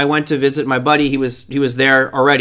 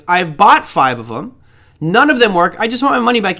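an annoyed customer wanting a refund, lightly played; retold frustrated customer demanding a refund; mock indignant complaint; 5 semitones higher than usual. Friend bickering over a refund.

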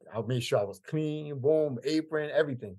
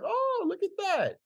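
high, slow, mock-impressed sneer; condescending; slower than usual. Imitating the arrogant regular sneering at the cook. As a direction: belittle him like a kitchen boy. Mocking customer quoted in story.

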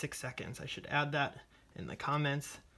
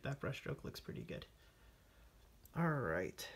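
soft whisper to yourself; 5 dB quieter than usual. Real, not acted. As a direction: hush it like you're concentrating. Quiet self-talk while painting.

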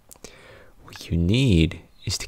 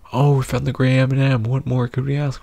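higher, louder, thrilled mascot voice; excited cartoon candy; 5 semitones higher, 5 dB louder than usual. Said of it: "Red is so excited".

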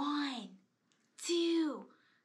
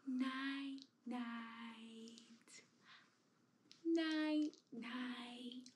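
whispering; 6 dB quieter, much slower than usual. Pretend. Lulling doll to sleep.

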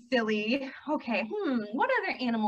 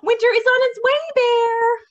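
high, loud warning; urgent storybook shout, pitched up; cried out; 10 semitones higher, 11 dB louder than usual. A narrator's reading. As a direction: get the sleepy listener moving. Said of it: "cried Ladybug".

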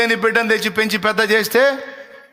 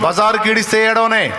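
call to repeat; 3 semitones higher than usual. Shown as a demonstration. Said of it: "call and response".

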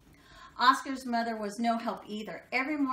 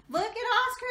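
high, loud jeering dogs; jeering pack of dogs yelling at Oscar; mocking cry; 13 semitones higher, 5 dB louder than usual. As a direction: call it out to tease him. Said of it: "they cried".

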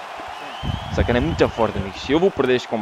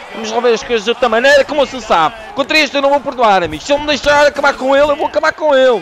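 higher and louder, pumped up for the fight; fired-up trash talk; 9 semitones higher, 5 dB louder than usual. Real, not acted. Gamer hyping himself up against a tough opponent, loud and fired up. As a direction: rev yourself up to finish him off.

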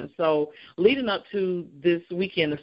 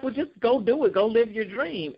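mom's advice; 5 semitones higher than usual. Retold or imitated. Mom voiced in retold story.

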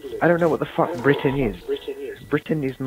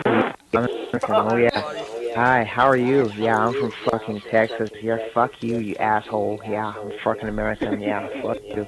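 imitated Texan American accent; mock American accent; 3 semitones lower than usual. British player parodying Americans after being mocked, American accent. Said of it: "the right idea for an American".

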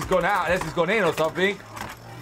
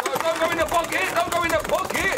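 pleading; 10 semitones higher than usual. Real, not acted. Pleading with beyblade.

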